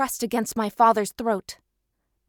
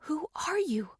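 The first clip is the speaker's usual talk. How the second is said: softer, higher question in the mind; inner thought; 5 semitones higher, 7 dB quieter than usual. Acted. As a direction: ask it silently, in thought. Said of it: "I thought at Winston".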